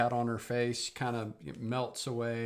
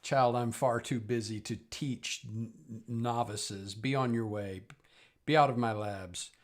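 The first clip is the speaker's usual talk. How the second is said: haughty dismissal; 4 dB louder than usual. Acted. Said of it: "And she says".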